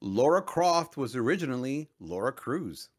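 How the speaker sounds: ordinary talk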